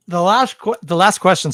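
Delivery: talking around a pen in the mouth; muffled words with a pen between teeth. Real, not acted. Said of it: "I was talking with the pen in my mouth".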